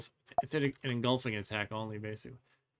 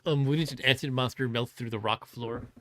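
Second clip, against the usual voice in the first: nerd voice; 6 dB louder than usual. Retold or imitated. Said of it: "the speaker says in nerd voice".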